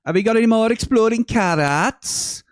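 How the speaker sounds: high, loud comic voice; quoted comedy line. Retold or imitated. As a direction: belt it out like a sitcom catchphrase. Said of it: "So the line was".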